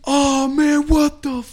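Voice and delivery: high, squeaky mock voice of a grossed-out guy; disgusted stranger. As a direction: squeak it out like a disgusted dude, half laughing. Stranger walks into vomit bathroom.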